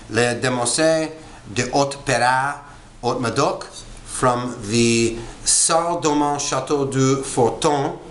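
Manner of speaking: French-accented reading of the wine label. Shown as a demonstration. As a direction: pronounce the château's name as the French would. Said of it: "I'm using a French accent".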